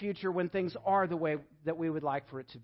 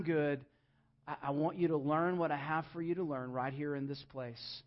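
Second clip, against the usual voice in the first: gentle reassurance; 3 semitones lower, 5 dB quieter than usual. Retold or imitated. Voicing God answering softly.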